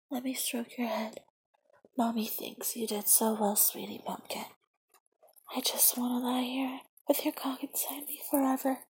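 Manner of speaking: soft whispered aftercare; afterglow whisper. Acted. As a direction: barely breathe it, spent and tender.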